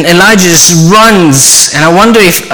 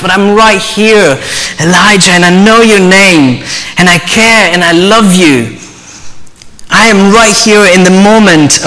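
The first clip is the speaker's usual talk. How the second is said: God's tender whisper; 3 semitones higher than usual. Acted. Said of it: "what was God whispering to Elijah".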